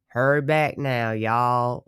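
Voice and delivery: a hint of a Southern drawl, imitating a friend; lightly put-on country twang on the farewell; mock country accent. Imitating Apple's country goodbye, lightly Southern. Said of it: "She was like".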